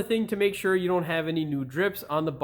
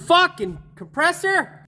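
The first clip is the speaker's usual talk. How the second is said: real furious shout, higher and louder, dragged out; angry outburst; 12 semitones higher, 7 dB louder, slower than usual. Real, not acted. Mechanic yelling at his air compressor, furious shout. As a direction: bellow it at the machine.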